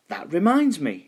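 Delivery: high, remembering skeleton; a skeleton struck by a thought; big skeleton voice. A narrator's reading. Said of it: "he said".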